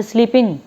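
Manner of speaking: "स्लीपिंग" ending on a nasal ng; stop on ng. Shown as a demonstration. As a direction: halt on the "अंग" sound of "स्लीपिंग", no g. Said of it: "अंग पे आप लोग रुक जाओगे".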